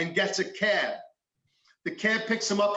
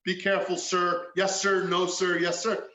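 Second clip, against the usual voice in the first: mock-polite officer after the shouting; really nice. Officers putting the cuffed man in the car, really nice. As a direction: drop to an even, courteous voice. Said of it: "you were really nice".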